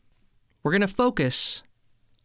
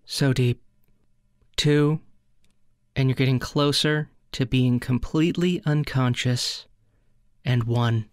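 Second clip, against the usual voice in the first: low, measured spoof hypnotist; lightly put-on meditation guide; mock hypnosis countdown; 3 semitones lower than usual. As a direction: ease them under with long pauses.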